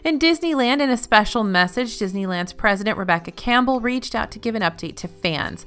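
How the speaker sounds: crisp, even newsreader delivery; news anchor voice. Acted. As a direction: read it like an evening news anchor. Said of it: "adopting this news anchor voice".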